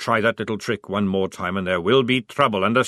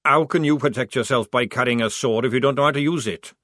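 patient; 4 semitones higher, 4 dB louder than usual. Acted. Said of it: "said Maledict patiently".

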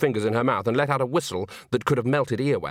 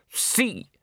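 high, muffled curt reply; 10 semitones higher than usual. Acted. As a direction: speak through a costume beak. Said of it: "a muffled voice".

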